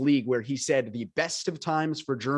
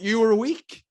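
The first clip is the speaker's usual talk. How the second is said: raised, higher voice, telling them off; scolding outburst; 8 semitones higher, 6 dB louder than usual. Acted. To the white men who blame women, a loud scolding. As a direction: call them out to their face.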